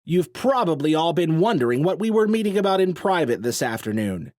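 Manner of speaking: addressing the crowd. A narrator's reading. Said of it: "called out to the crowd".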